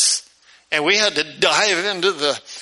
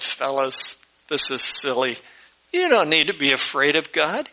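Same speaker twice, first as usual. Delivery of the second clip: smiling reassurance; 2 semitones lower than usual. Acted. Moses calming the scared people at the mountain, smiling reassurance. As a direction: soothe them with a smile, pitched down. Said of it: "Moses smiled and said".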